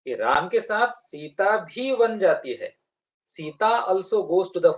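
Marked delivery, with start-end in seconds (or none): 0.9-2.8 भी drawn out with raised pitch; stress on भी. Shown as a demonstration. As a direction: lean on the word भी, holding it long. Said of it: "इस पर stress है".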